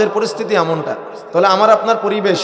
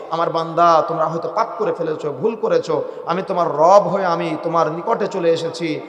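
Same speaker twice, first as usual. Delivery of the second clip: softer, lowered tender appeal; loving call; 3 dB quieter than usual. Acted. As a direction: voice God gently calling the servant closer. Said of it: "আমার রব আমাকে ভালোবাসা দিয়ে ডাকে".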